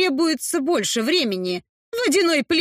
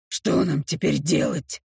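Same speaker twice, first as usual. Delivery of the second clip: low orc voice; 8 semitones lower than usual. Acted. Gron's low voice.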